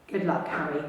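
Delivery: soft, low murmur. Acted. Dumbledore softly wishing baby Harry luck. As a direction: murmur it gently to the sleeping baby. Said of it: "he murmured".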